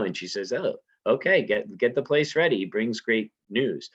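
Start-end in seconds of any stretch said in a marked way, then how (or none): 0.5-2.6 casual command. Retold or imitated. Lady Macbeth paraphrased reply.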